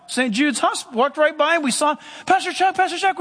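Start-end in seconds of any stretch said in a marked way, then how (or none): 2.3-3.2 higher-pitched call to catch someone passing. Retold or imitated. Tired parents spotting their pastor walking by the hospital, calling out. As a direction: hail the pastor eagerly.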